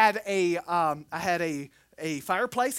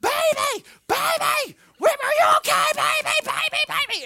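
very high, loud frantic mother's cry; mother screaming; 8 dB louder than usual. Retold or imitated. Mother screaming over the phone, frantic. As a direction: scream his name like a terrified mom. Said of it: "I hear my mother screaming".

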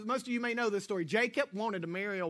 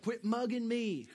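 laughing tease; 3 semitones higher than usual. Retold or imitated. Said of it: "and she's like".

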